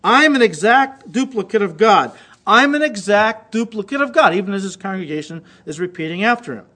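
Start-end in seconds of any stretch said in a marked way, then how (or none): 0.0-4.4 loud, insistent preacher-style declaration; raised-voice imitation of a rallying chant; imitated yelling. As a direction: lightly mimic a preacher yelling a chant to his congregation. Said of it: "He's yelling now".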